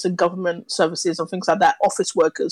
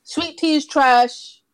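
blunt verdict; 3 semitones higher, slower than usual. Acted. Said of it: "I'm saying it straight up".

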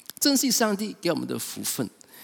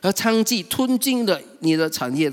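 aggrieved son protesting, raised voice; angry elder son; 5 semitones higher than usual. Retold or imitated. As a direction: vent years of resentment at father. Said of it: "所以他很生气的时候".

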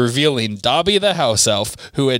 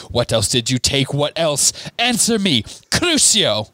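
interrogating; 2 semitones higher than usual. Acted. Bellatrix torturing Hermione for answers, rising anger. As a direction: push harder with each question.

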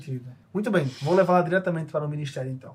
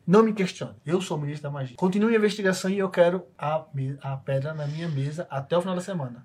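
a curt, stern rebuke that rises on Não; a minister who won't be questioned. Acted. Minister scolds the players. (ministro autoritário, ríspido)

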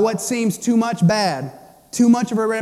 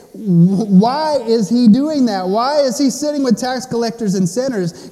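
acted indignant challenge; 2 semitones higher, 4 dB louder than usual. Religious people questioning Jesus at the feast, mock indignant challenge. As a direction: demand an explanation, stressing the why.

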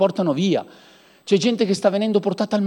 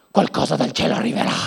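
mock dreamy murmur; 3 semitones lower, faster than usual. Mock naive believer.

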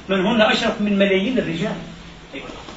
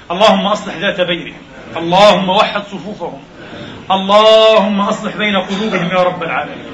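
fervent prayer. Acted. Preacher leads the congregation in fervent prayer. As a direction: plead to God with rising fervour.

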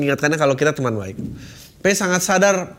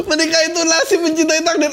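mocking high quote; 12 semitones higher than usual.

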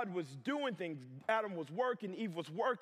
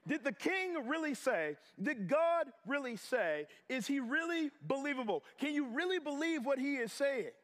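higher, pointed incredulous questions; questioning doubt; 6 semitones higher than usual. Acted. Serpent questioning what God said, pointed doubt. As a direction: cast doubt, leaning on each question. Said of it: "The enemy put a question mark".

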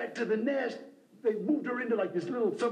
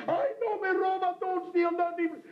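screaming neighbor lady; 10 semitones higher than usual. Retold or imitated. Old neighbor lady yelling at him in her yard, high shout. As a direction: yell it across the backyard in alarm. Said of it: "her screaming".

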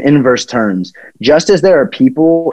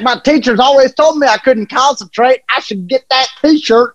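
mock dim buyer; 12 semitones higher than usual. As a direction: say it like a proud simpleton. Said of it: "And he's like".

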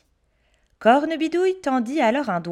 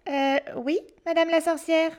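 put-on smiling boy; 6 semitones higher than usual. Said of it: "répondit Pierre en souriant".

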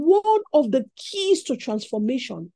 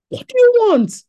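higher, louder booming question; 1 God's voice; 11 semitones higher, 9 dB louder than usual. Acted. Preacher repeating God's question to Solomon, higher and louder. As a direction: call it out as God, even bigger. God asking Solomon again.

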